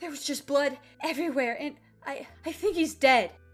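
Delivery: mock tearful voice. Retelling what a woman in terror said, imitating someone crying. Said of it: "really hard to hear her saying these words through her tears".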